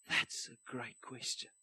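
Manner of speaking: slow, soft, low British voice; British accent. Acted. Pitcher saying it every time to investors, British accent. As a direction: draw it out quietly in a put-on British accent. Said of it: "my best British accent".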